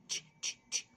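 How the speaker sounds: "تش" as a short, voiceless burst; ch sound. Shown as a demonstration. Teacher showing pupils the CH sound, "تش" in short voiceless bursts. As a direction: say "تش" as bare, soft ch bursts with no vowel. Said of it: "الساوند بتاعها تش".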